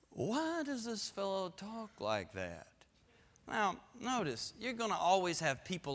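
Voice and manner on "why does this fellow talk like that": slow, snooty scribe voice; lightly voiced sneering scholar; mocking the scribes. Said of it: "Look what they say".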